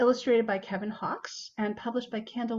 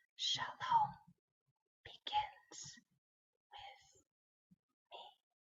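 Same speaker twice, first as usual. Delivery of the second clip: very quiet, soft, breathy group whisper; 10 dB quieter than usual. Leading a group repeating a phrase that keeps getting softer, now in a whisper. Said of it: "Let's whisper".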